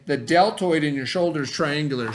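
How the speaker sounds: put-on clear, deliberate read-aloud voice for kids; reading to children. Teacher reads the science book to her students, storytime voice.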